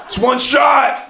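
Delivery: slow, loud, intense mock Walken delivery; hammed-up Russian roulette line, slow and loud; mock Deer Hunter line. Deer Hunter quote acted out.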